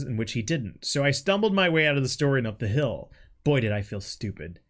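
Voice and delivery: measured story-reading voice; reading aloud. Acted. Friend reading own written story to co-host, read-aloud narration.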